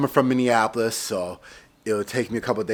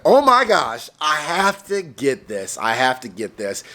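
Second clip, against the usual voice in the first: excited; 2 semitones higher, 3 dB louder than usual. Retold or imitated. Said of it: "And I was like".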